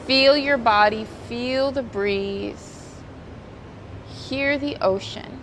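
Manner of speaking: calm, unhurried yoga teacher cues; soothing voice leading a stretch; guided yoga instruction. Acted. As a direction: guide the class gently through each stretch.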